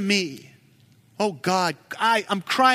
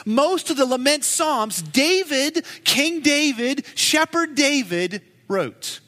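emphatic build; 6 semitones higher than usual. Acted. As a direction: build each title of David. Building emphatic list of David.

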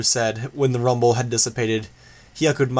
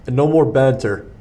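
louder, firm commanding voice; gruff orders; 4 dB louder than usual. A narrator's reading. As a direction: bark orders at the squad. Gru orders the team.

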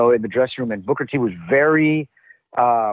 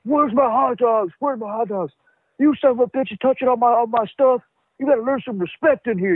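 pissed off; 9 semitones higher than usual. Retold or imitated. Booker T raging at the locker room over hot dogs, high mock fury. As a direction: rant like a man whose lunch was stolen. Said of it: "he's, like, pissed".

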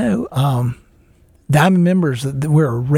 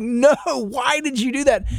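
higher and slow, mock despair; dismayed high voice; 8 semitones higher, slower than usual. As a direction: replay the plea to the son, up high. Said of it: "but I was like".

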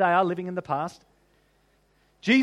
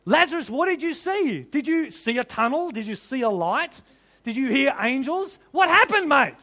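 eager questioning; 3 semitones higher than usual. Pretend. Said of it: "imagined questions to Lazarus".

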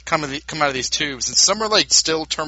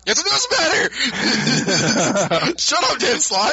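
higher, laughing exasperated yell; exasperated shout; 9 semitones higher than usual. Real, not acted. Cohost yelling at the comic's writer, exasperated. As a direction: shout it out, fed up.

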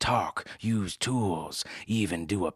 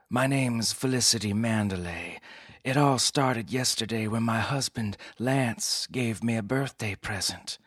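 breathy dame; 4 semitones higher than usual. Acted. Client voiced higher.

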